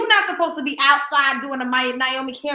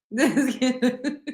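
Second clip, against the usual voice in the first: words collapsing into laughter; helpless real laugh cutting the sentence short; laughing hard. Real, not acted. In disbelief at celebrity gossip on a live, laughing too hard to finish. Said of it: "I'm laughing in this live".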